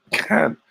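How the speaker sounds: "Can" pushed forward, open a vowel; Cockney pronunciation. Shown as a demonstration. Host demonstrating the little move to listeners, Cockney "Can". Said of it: "You gotta move forward".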